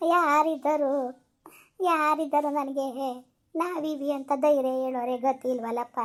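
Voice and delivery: slow, halting, grieving; slow tearful lament. Acted. Old mother mourns having no one to comfort her, slow and tearful. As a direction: ask who is left for you, close to tears. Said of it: "ಅಳ್ಬೇಡ, ಸುಮ್ನಿರಮ್ಮ".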